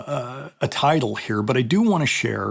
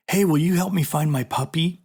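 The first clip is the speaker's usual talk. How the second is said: lightly acted coaxing stranger, pitched up; higher, mildly put-on asking voice; demo stranger's lure; 6 semitones higher than usual. Shown as a demonstration. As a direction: demonstrate a stranger's friendly-sounding lure to a child.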